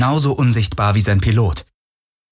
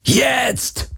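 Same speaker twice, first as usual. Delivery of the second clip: shout. Acted. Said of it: "brüllte Garland".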